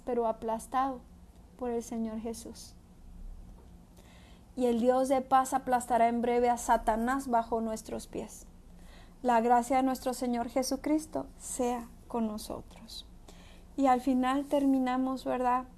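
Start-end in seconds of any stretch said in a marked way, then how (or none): 4.6-13.1 measured, declaiming Bible reading; scripture reading. Acted. Preacher reading Romans aloud to the congregation, solemn and measured. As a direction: read the verses out with weight.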